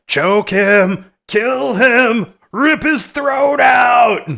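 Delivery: high, screaming killer doll; bloodthirsty screech from a severed head; evil doll shout. Retold or imitated. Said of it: "the head continues to shout encouragement".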